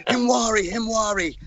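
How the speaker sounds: mock them in a high babyish squeak, laughing; mocking baby talk. Teasing a rival's answer in a squeaky, laughing baby voice.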